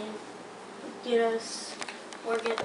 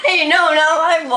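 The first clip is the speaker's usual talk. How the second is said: high, loud protest; shouting; 6 semitones higher, 16 dB louder than usual. Real, not acted. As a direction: yell it in protest. Protesting loudly about bowl.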